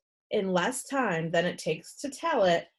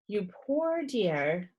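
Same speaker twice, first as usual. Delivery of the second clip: slow, soft, sympathetic; tender pity; 3 dB quieter, much slower than usual. Acted. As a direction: say it like comforting a child. Nurse comforts frightened boy.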